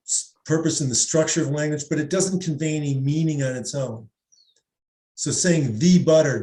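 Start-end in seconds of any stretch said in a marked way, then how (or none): 5.8-6.4 "the" said as thee before butter; odd stressed "thee"; wrong "thee". Shown as a demonstration. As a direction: say "the" as "thee" here. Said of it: "doesn't make any sense".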